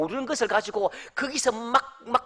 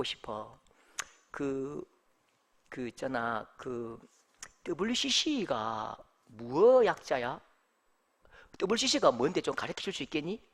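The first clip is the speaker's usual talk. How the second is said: much lower, softer coaxing voice; gentle quiet asking; 11 semitones lower, 9 dB quieter than usual. Retold or imitated. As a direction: ask softly, like a patient older brother. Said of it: "불렀다고 이렇게".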